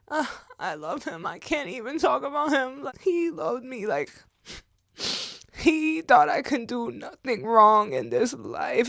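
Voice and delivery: real tearful voice, pitched high; crying. Real, not acted. Woman remembering her late grandfather, crying. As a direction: choke up while remembering someone loved. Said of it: "now I'm crying about".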